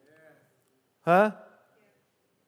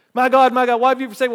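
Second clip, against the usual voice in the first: anguished cry out; 5 semitones higher, 5 dB louder, much faster than usual. Acted.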